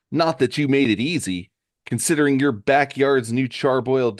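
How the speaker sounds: lightly acted accusing sleuth; detective laying out clues. Johnny confronts Mike over the burned card, accusing. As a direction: play Johnny piecing the case together, pointedly.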